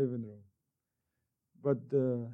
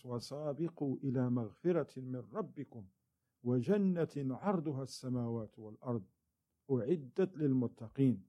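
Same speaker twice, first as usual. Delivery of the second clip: rapid recited verse; fast Quranic recitation; quick Quran recitation; 4 dB quieter, much faster than usual. Acted.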